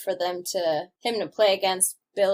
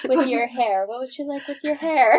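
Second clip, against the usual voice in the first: higher, flustered imitation; mock flustered; 4 semitones higher than usual. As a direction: fumble the question, playfully imitating someone thrown. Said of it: "she gets all flustered".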